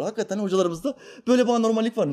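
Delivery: usual speaking voice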